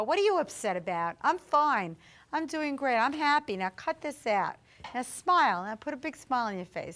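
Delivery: brisk, insistent pep talk, retold; brisk reassurance. Late father telling his upset daughter he's fine, brisk and insistent.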